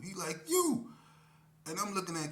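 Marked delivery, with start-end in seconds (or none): 0.5-0.9 very high, loud single word; blunt K P. Retold or imitated. K P to the narrator, very high loud answer. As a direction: pin him down with one word.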